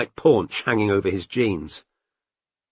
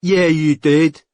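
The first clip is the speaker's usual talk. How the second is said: slow, louder retort as if under a duvet; muffled voice; 6 semitones higher, 6 dB louder, slower than usual. A narrator's reading. Daz contradicts Mandy from under the duvet, muffled. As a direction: talk back through bedclothes. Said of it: "came Daz's muffled voice from under the duvet".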